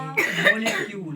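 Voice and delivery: slow, drawn-out मॉलिक्यूल, each syllable stretched; slow teaching answer. Shown as a demonstration. Tutor giving a child the answer, slow and drawn out. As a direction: spell the word out slowly for the child. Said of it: "तो वो छोटा छोटा टुकड़ा को कोची बोला गया?".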